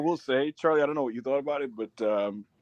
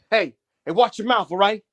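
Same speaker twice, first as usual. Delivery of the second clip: raised-pitch Italian tough-guy warning; mock chivalrous machismo; 7 semitones higher, 4 dB louder than usual. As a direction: imitate him defending a lady, slowing at the end. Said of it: "Italian machismo s-, chivalrous element".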